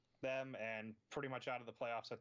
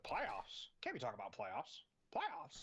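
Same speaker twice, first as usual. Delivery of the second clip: Jim Moore rant. Retold or imitated. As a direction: do the exasperated coach rant. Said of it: "head coach Jim Moore who said".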